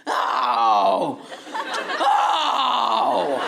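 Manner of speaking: put-on high, loud cries of a small boy; toddler son. Son in the back seat crying out, loud childish wail. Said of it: "I heard him going".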